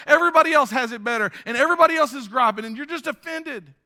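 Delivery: high, loud preacher's rhythm; full-force preaching. Acted. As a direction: drive each line home to the church.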